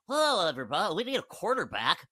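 a mock impression of the owner addressing the room; imagined Mark Davis voice. Host mimics the Raiders owner to mock him, lightly put-on voice. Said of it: "I just imagine him speaking like that".

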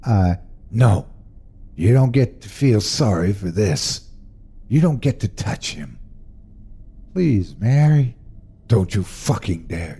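firm, controlled contempt; hard mother. Acted. Mother forbidding her husband to touch their son, firm contempt. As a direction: shut him out word by word.

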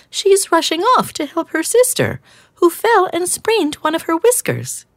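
timid hedgehog offering an idea; gentle hedgehog. Acted. Hedgehog explains.

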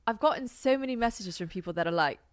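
put-on amateur take on an English accent; imitated English accent. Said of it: "this cultural appropriation accent".

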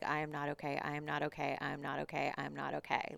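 re-enacted numb, repetitive chant; stuck loop. Coach reliving the breakdown at the steering wheel, stuck looping. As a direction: repeat each phrase identically, like a skipping record. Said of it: "in this, like, stuck loop".

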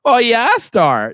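a light Midwestern Nebraska twang, drawn out; imitating a Nebraska divorcee with a Midwestern accent. Podcast host mimics the Nebraska characters' accent, lightly Midwestern. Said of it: "they talk in that".

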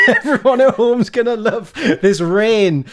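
slow, laughing sarcasm. Real, not acted. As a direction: laugh through the words. Laughing while fiddling settings.

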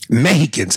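Mexicans said meh-HEE-cans with an h sound; host repeats Spanish-style Mexicans. Shown as a demonstration. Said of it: "that's the way the Mexicans say it".

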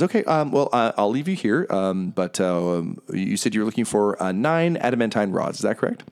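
lightly voiced hostess; Missus Dead. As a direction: politely hand them off. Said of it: "Missus Dead says".

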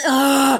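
loud, high "ugh" of disgust; groan, fed up with the whining; exasperated groan. Real, not acted. Disgust at the whiny imitation.

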